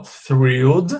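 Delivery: THRILLED slow, tongue between teeth on TH; careful TH demonstration. Shown as a demonstration. Teacher shows students where the tongue goes, carefully. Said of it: "tem que pôr a língua entre os dentes".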